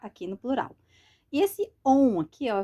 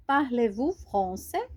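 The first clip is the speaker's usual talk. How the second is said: slower, carefully spaced question; slow model phrase; 2 semitones higher, slower than usual. Shown as a demonstration. Teacher to beginners, modelling the question slowly.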